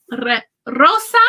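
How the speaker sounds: "rosa" with a trilled initial R; rolled R. Shown as a demonstration. Teacher shows students a word-initial R, "rosa" with it rolled. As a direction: roll the tongue on the first R of "rosa". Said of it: "is rolled".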